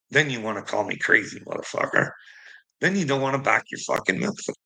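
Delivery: ordinary talk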